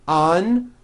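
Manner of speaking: "Un-u-ju-al" broken into beats; teacher splitting the word; syllable by syllable. Shown as a demonstration. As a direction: split it up first. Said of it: "now try unusual".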